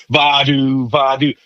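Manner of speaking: swung do-va syllables with smoker rasp; raspy old smoker voice on scat syllables; smoker-woman rasp. Shown as a demonstration. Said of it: "Sound like an old smoker woman when I say do".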